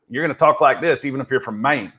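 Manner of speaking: mock Hollywood Southern accent. Shown as a demonstration. Podcast host mocking how Hollywood voices Iowans, mock Southern accent. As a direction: talk with a put-on Southern accent. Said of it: "you're gonna have a Southern accent".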